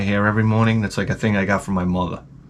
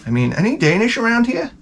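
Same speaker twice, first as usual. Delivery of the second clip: smug aside; 8 semitones higher than usual. Pretend. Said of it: "you sit down with the mother afterwards and you say".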